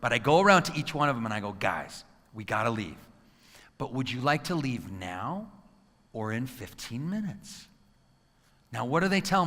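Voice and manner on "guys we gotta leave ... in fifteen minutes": 1 calm offer. Retold or imitated. Parent calmly offering kids a choice, soft and slow. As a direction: gently lay out the choice.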